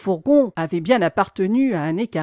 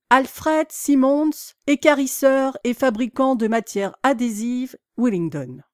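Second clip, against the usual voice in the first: reading aloud. A narrator's reading.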